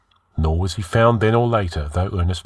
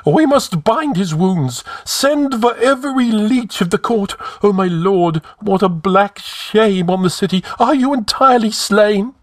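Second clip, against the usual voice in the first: very high, wailing alarm; crying out; 13 semitones higher, 4 dB louder than usual. A narrator's reading. Panicking High Counselor over the wounded king, crying out. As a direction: fret and wail at high pitch. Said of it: "cried Publius".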